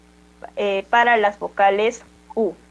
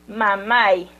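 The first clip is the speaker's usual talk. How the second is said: MAMAI with force on the closing MAI; stress on last syllable. Shown as a demonstration. Teacher repeating for learners, final MAI stressed. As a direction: land the weight on MAI in MAMAI. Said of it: "Lo repito".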